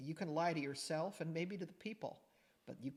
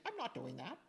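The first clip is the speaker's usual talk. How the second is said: mock denial; 5 semitones higher than usual. Retelling her own denial.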